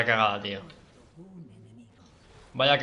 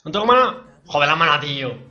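angry shout; 8 dB louder than usual. Real, not acted. Player runs out of mana in a fight, loud furious shout. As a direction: yell it out in real frustration.

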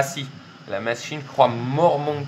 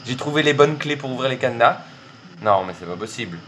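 normal talking voice

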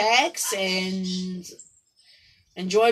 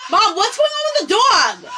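calling out; 10 semitones higher, 5 dB louder than usual. Real, not acted. Calling out to mom off-camera.

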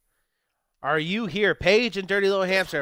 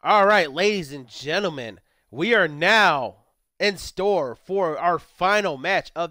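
slow, lowered ring announcer delivery; mock official announcement; slower than usual. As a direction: announce the main event with ceremony. Introduces final match to chat.

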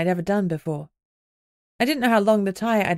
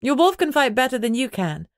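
raised voice; 4 semitones higher than usual. Acted. Alpha addressing her chattering pack, raised voice. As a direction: speak up over the noisy room. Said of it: "I raised my voice".

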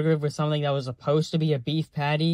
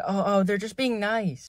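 higher imitation of naive defenders; lightly mock their reassurance; mock excuser; 4 semitones higher than usual. People saying not to send them away, mock soothing.

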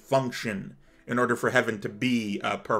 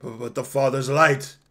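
desperate, higher-pitched acted plea; cornered councilor bargaining for life; stammering last argument; 3 semitones higher, 4 dB louder than usual. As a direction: stammer at first, then build to a loud cry. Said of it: "stammers its final feeble argument".

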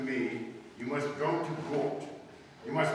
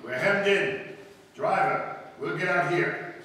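urgent alarm; 5 semitones higher, 5 dB louder than usual. Acted. Trapped by army cars, fleeing.

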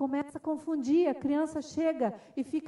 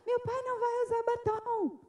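high mock-crying child voice; imitated tearful child; 10 semitones higher than usual. Boy defending his father to teacher, imitated crying protest. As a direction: wail it like a small boy in tears. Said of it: "o menino começou a chorar".

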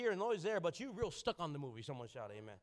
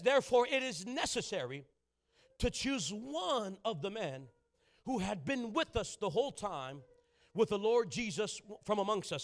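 scripture reading; 4 dB louder than usual. Acted. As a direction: read the verse deliberately.

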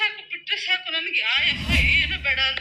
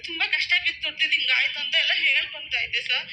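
tearful. Real, not acted. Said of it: "ಹೇಳ್ಕೊಂಬೇಕಾದ್ರೆ ತುಂಬಾ ಅಳ್ತಾ ಇದ್ದೆ".

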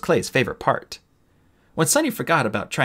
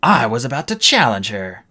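mock cry; 6 dB louder than usual. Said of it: "Glory cried".

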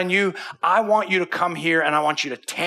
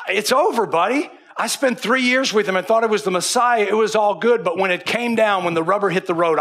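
higher, louder despairing Peter; Peter's lament; 5 semitones higher, 4 dB louder than usual. Acted. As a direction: cry it out like a broken fisherman.

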